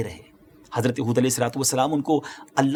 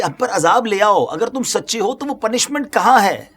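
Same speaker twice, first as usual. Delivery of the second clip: higher-pitched, mock-defiant demand; brazen taunt; 6 semitones higher than usual. Disbelievers daring their prophet to bring the punishment, brazen taunt. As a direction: dare the prophet to produce it. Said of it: "اتنے بے باک تھے".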